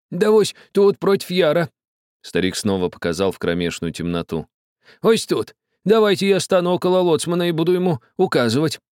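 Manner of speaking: put-on high, eager old villager; old man insisting. A narrator's reading. Old man offering to guide the pilot, high and eager. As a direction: insist and point.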